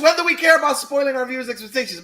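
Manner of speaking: talking through laughter; high, loud laughing words. Real, not acted. Joking after laughing fit.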